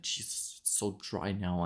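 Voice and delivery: a dry-mouthed patient whispering to himself; whispered complaint. Retold or imitated. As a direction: whisper it, parched. Mouth dry after sugar tablets.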